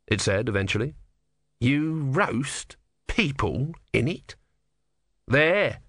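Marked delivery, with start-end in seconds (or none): 1.6-4.4 slow, appalled tortoise; slowly horrified tortoise. Acted. Tortoise voice in narration. 5.3-5.8 louder triumphant monk. A narrator's reading. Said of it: "said Brother triumphantly".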